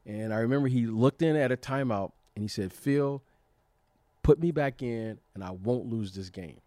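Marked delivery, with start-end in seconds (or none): 2.7-6.6 firm, louder plea that drops low at the end; retold conviction. Player asking the coach to put him back in, retold conviction. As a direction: retell a star player's vow to his coach. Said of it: "he said it with such conviction".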